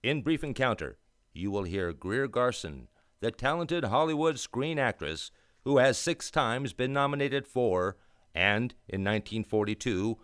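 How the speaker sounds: put-on grand old-time radio announcer read. Announcer presenting tonight's play to listeners, grand and polished. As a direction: sell the evening's play with polish.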